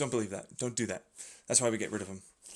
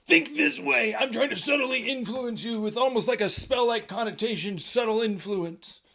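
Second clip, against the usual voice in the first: mock manipulator; 5 semitones higher, 3 dB louder than usual.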